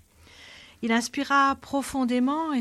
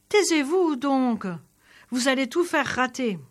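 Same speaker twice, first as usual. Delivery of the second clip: stern rebuke; 3 semitones higher, 3 dB louder than usual. Acted. Soldier silences howling maid.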